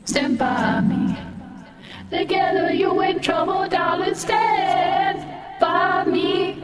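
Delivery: singing through a voice changer. Real, not acted. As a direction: karaoke with a voice filter. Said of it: "With the, with the voice changer".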